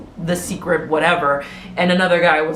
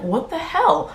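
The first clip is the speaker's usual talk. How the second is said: shocked outburst; 10 semitones higher than usual. Retold or imitated. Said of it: "And she's like".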